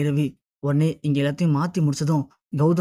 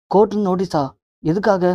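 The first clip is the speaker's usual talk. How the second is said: higher, mildly startled question; taken aback, a little louder; surprised questioning; 3 semitones higher, 4 dB louder than usual. Retold or imitated. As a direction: react in mild disbelief, pitch lifted. Shocked reaction to court notice.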